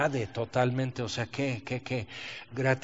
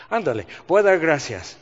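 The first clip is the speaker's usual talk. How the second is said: sarcastic thanks; 5 dB louder than usual. Retold or imitated. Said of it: "hasta sarcásticamente empecé".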